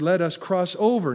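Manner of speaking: "over" punched, set against "under"; stress on OVER. Shown as a demonstration. Preacher repeating Jesus' word to the congregation, stressing "over". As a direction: lean firmly on the word "over". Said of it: "not go under".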